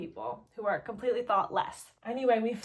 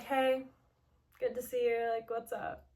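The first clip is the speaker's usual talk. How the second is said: low-effort greeting. Retold or imitated. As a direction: greet them as if barely bothering. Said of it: "put in a little more effort than that".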